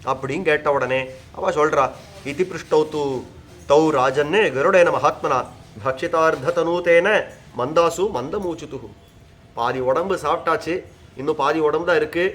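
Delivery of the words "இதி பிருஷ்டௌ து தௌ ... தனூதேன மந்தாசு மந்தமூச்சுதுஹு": slow, measured Sanskrit verse chant; verse recitation. Acted. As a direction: intone the sloka slowly and evenly.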